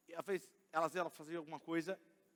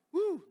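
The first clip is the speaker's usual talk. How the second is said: mock sob; 12 semitones higher, 10 dB louder than usual. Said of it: "é o choro".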